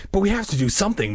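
high, fast protest; urgent cry. A narrator's reading. Margaret wanting to rescue him, crying out. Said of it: "Margaret cried".

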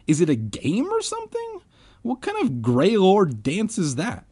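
high-pitched, puzzled voice; whispered question. A narrator's reading. Ben puzzles over the dance, high-pitched whispered question. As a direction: ask in a squeaky high voice. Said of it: "Ben whispered to me".

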